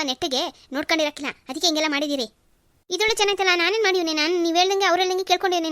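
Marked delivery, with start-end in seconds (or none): 2.9-5.7 higher and louder, stung and defensive; indignant protest. Acted. Mother-in-law defends herself against the accusation, indignant and raised. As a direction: push back hard against the accusation.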